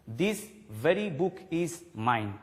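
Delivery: slow, weighty "This very book", with "very" leaned on; emphatic stress on very. Shown as a demonstration. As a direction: lean on "very" to single out the book. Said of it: "I am giving more stress".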